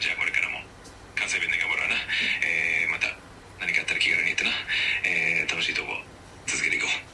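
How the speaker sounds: Kansai dialect with a serious streak; earnest Kansai dialect. Shown as a demonstration. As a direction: attempt Kansai speech, staying rather earnest. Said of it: "なんかすごい節々に真面目な感じが出てきてる". (真面目な感じの関西弁)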